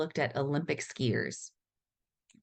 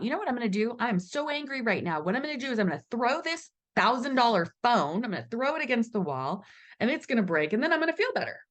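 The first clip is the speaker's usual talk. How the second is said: mock angry thinker; 6 semitones higher, faster than usual. Voicing an angry phone-thrower.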